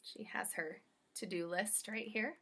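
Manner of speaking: hushed aside to the listeners; whisper. Real, not acted. Reader leaning in to tell children, whispered. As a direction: whisper it like a secret. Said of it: "reader aside whispered".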